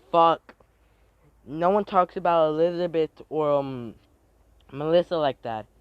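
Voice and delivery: loud, high furious yell; angry outburst. Acted. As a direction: snap at them in protective rage.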